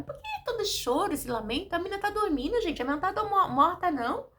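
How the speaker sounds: high, lively mock protest; acted remonstrating. Preacher voicing Jesus to the weeping crowd, acted remonstrating.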